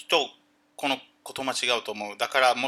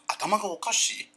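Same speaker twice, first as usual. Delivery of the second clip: mocking insinuation; 3 semitones higher, 5 dB quieter, faster than usual. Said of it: "意味は".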